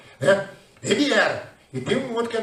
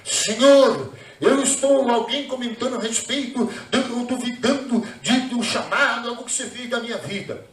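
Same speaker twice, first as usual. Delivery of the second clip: raised, insistent plea to God; oração reencenada. Retold or imitated. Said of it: "Qual é a minha oração?". (súplica em voz alta, reencenando a oração)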